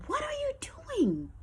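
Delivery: slow, high whisper; whispered disbelief. Retold or imitated. She stares the girl down, whispering slowly. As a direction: breathe the words in disbelief.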